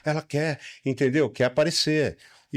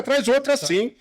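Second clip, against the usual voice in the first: excited; 10 semitones higher than usual. Real, not acted. Delighted at the food.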